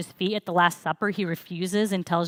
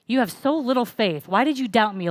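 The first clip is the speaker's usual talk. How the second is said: scolding; 4 semitones higher, 3 dB louder than usual. Shown as a demonstration. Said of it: "Jesus scolding Peter for messing up".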